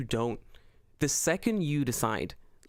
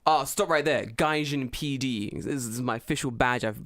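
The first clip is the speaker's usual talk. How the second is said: gatekeeping policeman. Pretend. Plays gatekeeping gaijin police officer.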